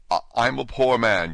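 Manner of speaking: trembling voice. Acted. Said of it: "in a trembling voice".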